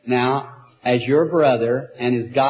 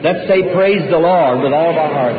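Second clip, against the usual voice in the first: loud rallying call; 3 semitones higher, 5 dB louder than usual. Real, not acted. Preacher leading the congregation in praise, raised call. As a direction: lift the crowd with a ringing cry.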